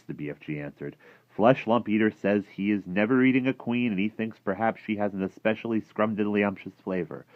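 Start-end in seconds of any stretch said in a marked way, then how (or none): 1.3-7.2 slightly raised, loud giant reporting; a hint of a chatty giant; lightly voiced friendly giant, matter-of-fact. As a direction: lightly play the giant passing on gossip.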